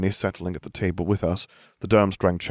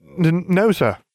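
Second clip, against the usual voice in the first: stammering, much higher and louder; 10 semitones higher, 5 dB louder than usual. Answering a gruff voice asking about injuries, a character replies: stuttering. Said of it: "Longbottom stuttered".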